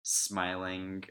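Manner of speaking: soft, slow, strangled and awkward; slow awkward strangled delivery; awkward strangled smile. Retold or imitated. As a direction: squeeze it out through a forced smile. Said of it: "doing this weird, awkward, strangled, smiling".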